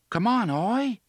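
high, loud call across the gap. A narrator's reading. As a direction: call out to the animal. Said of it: "Jake called".

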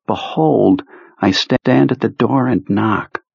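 slow, solemn and eerie; eerie quoted line. Acted. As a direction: intone it slowly like scripture. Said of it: "what had he said".

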